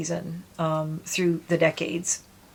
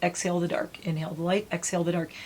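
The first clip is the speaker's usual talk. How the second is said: guided breathing. Shown as a demonstration. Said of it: "like I said".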